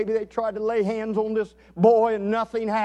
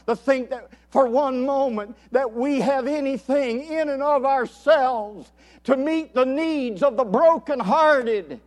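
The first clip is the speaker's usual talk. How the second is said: raised pitch, driving pulpit exhortation; emphatic preaching; 5 semitones higher, 5 dB louder than usual. Acted. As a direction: build to a forceful declaration. Preaches at full force.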